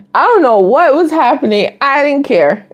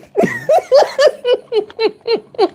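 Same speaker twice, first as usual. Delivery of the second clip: big laugh; 13 semitones higher, 3 dB quieter than usual. Real, not acted. Big laugh at own story.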